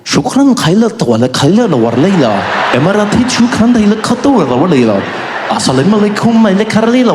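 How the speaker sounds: hammed-up fake Arabic announcement; mock Arabic gibberish. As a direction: parody an Arabic safety video. Mock Emirates safety video.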